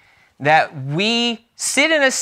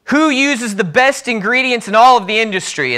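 lightly acted CEO, higher and louder; rallying CEO; 5 semitones higher, 4 dB louder than usual. CEO to salesmen at a national gathering, raised rallying voice. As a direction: fire up the sales crowd. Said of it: "the C E O stood up before the eager salesmen".

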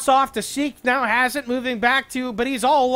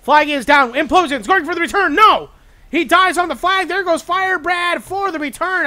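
excited call; 4 semitones higher, 5 dB louder than usual. Real, not acted. Caster reacting to the return attempt.

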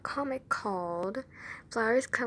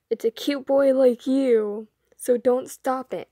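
flirty tease; 7 dB louder than usual. Acted. Idol flirts with fan.

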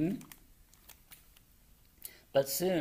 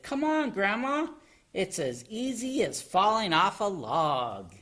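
higher, lively urging; eager coaxing; 6 semitones higher, 3 dB louder than usual. A narrator's reading. Froggy coaxes Grandma toward high places, eager raised voice. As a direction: coax brightly in a raised voice.

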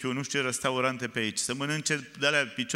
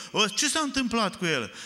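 mild retold shout; 7 semitones higher than usual. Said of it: "țipete, strigă".

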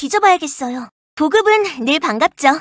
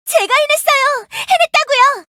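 excited cry; 10 semitones higher, 3 dB louder than usual. Acted. Triumph after finishing crafting.

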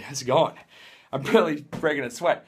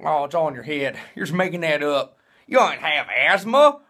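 grandma voice; 5 dB louder than usual. Retold or imitated. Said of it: "my grandma's like".

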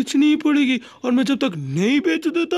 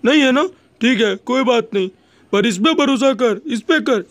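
loud mock rant; 6 dB louder than usual. Angry rant at distrustful son.

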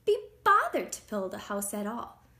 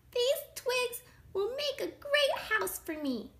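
tag. A narrator's reading. Pig delighted with twigs.

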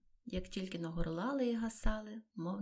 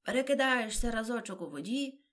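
a touch louder and higher, exclaiming; 4 semitones higher, 6 dB louder than usual. A narrator's reading. The turtle calls out while showing the dance, exclaiming. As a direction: call it out gleefully. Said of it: "вигукнула черепаха".

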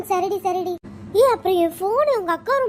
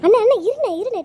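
loud, high pleading call; urgent call; 5 semitones higher, 6 dB louder, faster than usual. Acted. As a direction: grab his attention fast. Sister calming panicking brother.

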